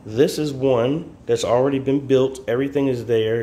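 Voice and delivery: talking through a face mask; muffled behind a mask. Real, not acted. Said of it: "Excuse my mask".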